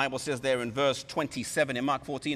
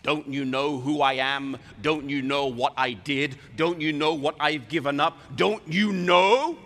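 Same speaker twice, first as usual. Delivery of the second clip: mounting indignation; 5 dB louder than usual. Acted. Indignant reply to Jesus.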